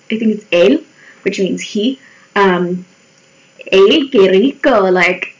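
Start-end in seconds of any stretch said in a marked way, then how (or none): 3.7-4.9 demonstrating a Spanish accent. Shown as a demonstration. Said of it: "Sorry about that accent".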